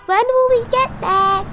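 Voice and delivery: put-on high, loud impatient child voice; Peppa calling from back seat. Peppa calling to parents from the car back seat, high whine. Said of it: "calls Peppa from the back seat".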